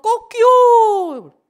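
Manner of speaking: very high, loud, long cock-a-doodle crow; rooster crow. Retold or imitated. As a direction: stretch it out like a rooster at dawn. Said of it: "닭이 우는 거예요". (아주 높고 크게 길게 끄는 닭 울음 흉내)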